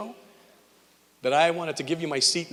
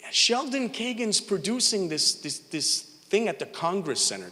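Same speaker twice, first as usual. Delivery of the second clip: imitating wife; 6 semitones higher, slower than usual. Wife calling from the internet.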